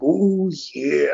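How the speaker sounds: imitating the Macho Man catchphrase; quick mock "Ooh, yeah"; a light Randy Savage impression; Macho Man growl. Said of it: "be like".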